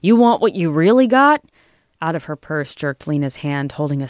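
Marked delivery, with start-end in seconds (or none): 0.0-1.4 loud growl, pitched up; growled threat. A narrator's reading. Lobbyist surges towards Lena, growling a loud threat. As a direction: growl it at full heat. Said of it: "Joel growled".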